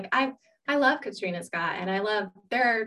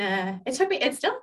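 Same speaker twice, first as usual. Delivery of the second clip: trembling, unsteady voice; shaky voice. Real, not acted. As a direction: voice shaking with nerves. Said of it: "you hear my voice shaking".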